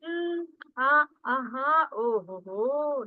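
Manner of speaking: demonstrated hmm, ah, uh-huh, oh, ho; filler sounds. Shown as a demonstration. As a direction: run through the filler noises as examples. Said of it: "like that".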